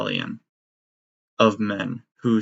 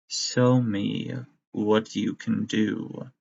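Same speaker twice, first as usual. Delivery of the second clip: slow, soft menacing order; sinister command; 3 dB quieter, much slower than usual. Acted. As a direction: draw it out like a villain. Villain command.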